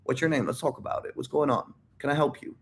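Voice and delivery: understated, soft-voiced support; reassuring. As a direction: let him off the hook gently. Acting out a forgiving, supportive reply.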